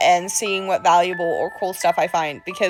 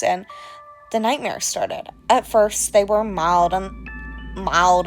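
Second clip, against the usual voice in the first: creepy storyteller voice. Acted. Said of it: "without this accent".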